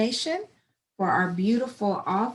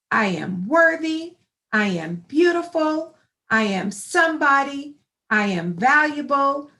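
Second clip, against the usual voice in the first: call and response. Shown as a demonstration. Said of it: "repeat after me".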